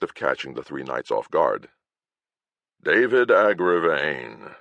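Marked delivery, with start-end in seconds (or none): 2.8-4.6 slow, unimpressed naming; flatly. Acted. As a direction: drop the name like a dull fact. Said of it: "Kern said flatly".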